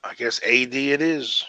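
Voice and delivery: dry sarcastic remark; deadpan, not meaning it. Real, not acted. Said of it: "I'm being sarcastic".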